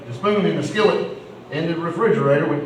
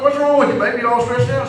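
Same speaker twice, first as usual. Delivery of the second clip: high, pitched-up fussing over a stressed wife; acted husbandly concern, pitched way up; 8 semitones higher, 4 dB louder than usual. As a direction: ask it high and loud on the first words, imitating a husband. Husband questions his huffy wife.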